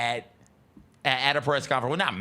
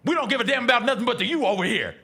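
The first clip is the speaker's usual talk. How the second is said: mock angry rant; 8 semitones higher, faster than usual. Continuing Winslow rant imitation.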